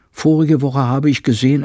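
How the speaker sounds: urgent housekeeper. Acted. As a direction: announce the new law with alarm. Frau Penck tells a frightening scene.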